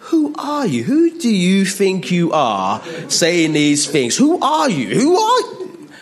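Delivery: very high, mounting outrage; hammed-up scandalised interrogation, climbing to a squeal; worked-up indignant challenge. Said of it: "I'm getting a bit excited now".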